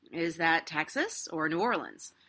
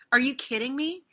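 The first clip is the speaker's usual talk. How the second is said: high-pitched incredulous outburst; exasperated disbelief, voice jumping up; 6 semitones higher, 4 dB louder than usual. Real, not acted. Incredulous at the actor's lie.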